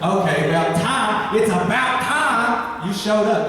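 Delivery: a hint of an impatient sister drawing out the words; Martha fed up. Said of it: "I just imagine Martha going".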